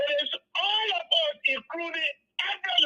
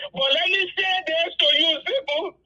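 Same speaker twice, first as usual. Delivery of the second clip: getting emotional; 3 semitones higher, 4 dB louder than usual. Real, not acted. Caller apologising to Seku for her tears, emotional. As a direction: voice rising with real emotion. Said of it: "I'm getting emotional".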